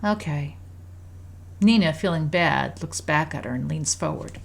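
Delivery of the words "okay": put-on mild sulky child's okay; understated disappointment. A narrator's reading. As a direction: give in with a small pout. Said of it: "Carrie sulks in her chair and says".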